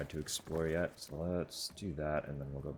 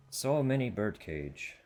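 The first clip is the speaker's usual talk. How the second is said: amazed; 7 semitones higher, 7 dB louder, slower than usual. Real, not acted. Amazed at room full of birdcages.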